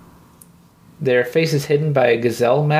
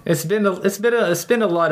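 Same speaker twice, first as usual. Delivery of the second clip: laughing; 7 semitones higher, faster than usual. Real, not acted. GM laughing mid-line.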